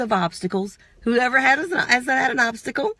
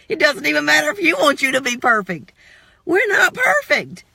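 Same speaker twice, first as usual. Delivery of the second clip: booming motivational speech; 7 semitones higher, 3 dB louder than usual. Acted. Emphatic preaching climax.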